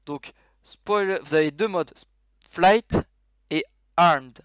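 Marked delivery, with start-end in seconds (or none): 2.5-3.0 "flight" pronounced the English way, as in the cockpit; English accent. Shown as a demonstration. Explaining cockpit buttons to viewers, in an English accent. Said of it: "excusez mon accent anglais". 3.5-4.4 "armed" in an English accent, a bit louder. Shown as a demonstration. Naming spoiler modes to viewers, in an English accent. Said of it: "excusez mon accent anglais".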